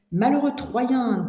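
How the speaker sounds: expressive, measured reading aloud; dictation read-through. Shown as a demonstration. Teacher reads the whole dictation to students, measured story reading. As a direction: read the story clearly for a class.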